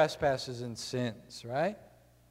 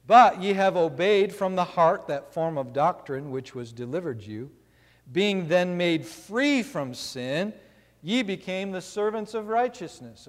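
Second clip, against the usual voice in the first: scripture reading. Acted. Preacher reads Romans aloud.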